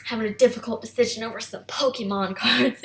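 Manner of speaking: forced casual. Retold or imitated. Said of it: "in her voice she was so trying to make it sound like a normal situation".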